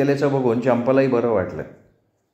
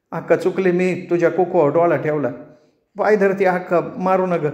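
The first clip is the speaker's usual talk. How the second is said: higher, mildly begging confession; pleading young woman; 6 semitones higher than usual. Acted. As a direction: beg forgiveness, clutching her feet. Rani confesses and begs.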